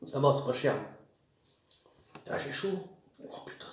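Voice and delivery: talking while chewing; eating between words; mouth full. Real, not acted. Seen 4: Holds wrap, puts fries in mouth, jaw moving through the words.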